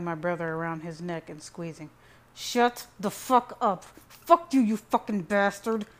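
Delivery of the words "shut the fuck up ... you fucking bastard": loud, high, slow-then-exploding rage; furious outburst. A narrator's reading. Son chokes his taunting brother, furious. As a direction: spit each word out in fury. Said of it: "I spat in his face".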